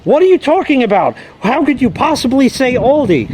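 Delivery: imitating an incredulous objector; mock indignation. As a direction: argue back in mock disbelief.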